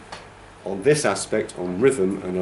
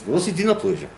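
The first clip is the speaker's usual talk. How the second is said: said in Russian, high swooping pitch; Russian example with a big peak; Russian phrase; 10 semitones higher, much faster than usual. Shown as a demonstration. Teacher gives class the Russian equivalent, in Russian with high pitch. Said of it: "So the Russian for".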